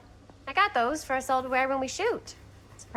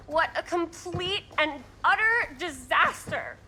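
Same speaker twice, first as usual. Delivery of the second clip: dramatic; 4 semitones higher than usual. Acted. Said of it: "Don't be so dramatic".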